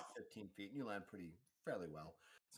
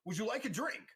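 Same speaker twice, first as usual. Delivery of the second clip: much higher, louder mechanical butler voice; clockwork servant; 12 semitones higher, 7 dB louder than usual. Acted. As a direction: chirp it like a clinking robot waiter. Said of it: "and he goes".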